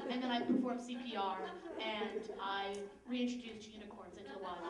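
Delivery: hammed-up heroic police statement; mock hero. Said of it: "I should sound like a hero".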